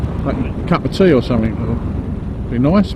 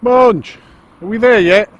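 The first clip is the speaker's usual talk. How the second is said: put-on high whiny kid voice; whiny child; 8 semitones higher, 3 dB louder than usual. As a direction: nag like a bored child. Child voice asking.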